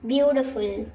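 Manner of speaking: ब्यूटीफुल said as byoo-ti-ful, clearly and on its own; model pronunciation. Shown as a demonstration. Teacher giving the word ब्यूटीफुल to memorise. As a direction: say ब्यूटीफुल clearly as the one to remember. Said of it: "pronunciation आप याद रख सकते हैं".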